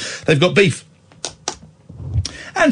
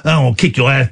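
mock tough guy; 6 semitones lower, faster than usual. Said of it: "The one that goes".

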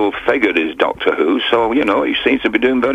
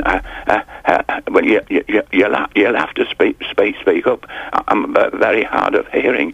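put-on very old man. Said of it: "I go into my old, my old man's routine".

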